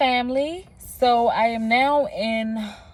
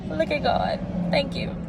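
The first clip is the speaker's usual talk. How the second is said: grateful; 8 semitones higher than usual. Retold or imitated. Grateful praise after escaping a ticket.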